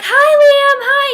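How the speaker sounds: high, loud squeal of hi; excited greeting. Retold or imitated. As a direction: squeal hello at your idol. Fans calling Liam.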